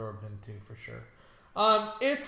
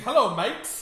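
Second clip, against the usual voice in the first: mock Australian accent; 5 semitones higher than usual. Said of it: "So it sounds more Australian".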